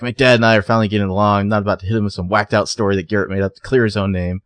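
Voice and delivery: rapid-fire mock outburst; flying off the handle. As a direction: rattle it off in mild mock indignation. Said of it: "flies off the handle".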